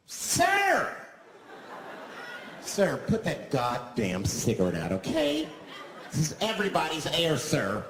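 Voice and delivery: shrill outraged shout at the smoker; scolding passenger. Acted. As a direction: play the prissy passenger snapping sir. Acted bus passenger scolding smoker.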